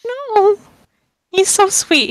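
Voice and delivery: very high, gushing wail; mock-distraught protest. Player defending a sweet character, high mock-distraught protest. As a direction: coo in protest over a darling.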